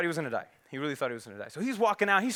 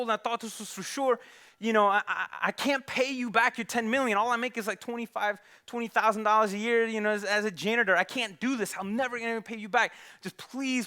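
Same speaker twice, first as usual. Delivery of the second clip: begging; 3 semitones higher than usual. Acted. Gambler begs the bookie.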